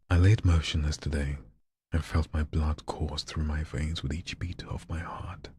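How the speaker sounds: dramatic reading. Acted. Reading viewer's dark text dramatically.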